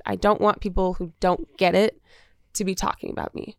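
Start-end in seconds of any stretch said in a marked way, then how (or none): 2.5-3.6 whispered. Real, not acted. Trailing off while confiding.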